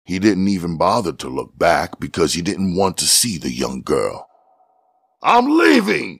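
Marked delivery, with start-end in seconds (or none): 5.2-6.2 much higher, firm flat declaration; firm statement. A narrator's reading. Buddy telling his partners he quits, firm. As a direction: announce it with finality. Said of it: "he stated again".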